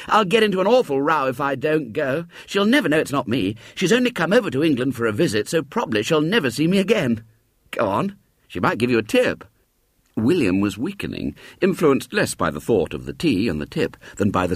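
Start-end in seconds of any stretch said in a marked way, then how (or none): 0.1-9.4 put-on high insistent boyish voice; persuading boy. Boy reassuring William, high and insistent. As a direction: brush the doubt aside.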